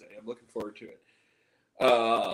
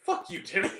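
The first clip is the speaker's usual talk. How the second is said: Brandon Cavillo vine; 13 semitones higher than usual. Retold or imitated. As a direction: stretch it out high and silly, like a meme. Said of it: "that Brandon Cavillo vine".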